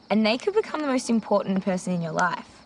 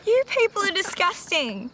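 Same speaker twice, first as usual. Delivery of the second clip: mock disgust; 11 semitones higher than usual. Real, not acted. Friends confessing party stories.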